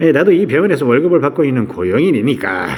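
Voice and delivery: sneering, mocking tone.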